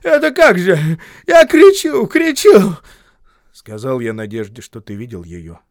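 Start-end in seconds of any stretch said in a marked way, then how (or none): 0.0-2.8 very high, loud furious yell; angry shouting. A narrator's reading. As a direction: rage at the boy, shivering wet. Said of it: "ругаясь и размахивая руками".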